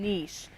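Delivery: "niche" said slowly, rhyming with leash; niche said as neesh. Shown as a demonstration. Adopting the pronunciation she was told, "niche" as neesh. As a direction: draw out "niche" as neesh, with a sh ending. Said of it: "So I'm saying niche".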